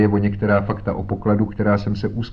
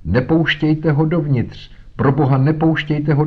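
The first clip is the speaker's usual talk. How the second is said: terrified scream; 7 semitones higher, 4 dB louder than usual. A narrator's reading. Dying father to his sons at the face outside, screaming in terror. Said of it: "hlasem, na který nikdy nezapomenu, zaječel".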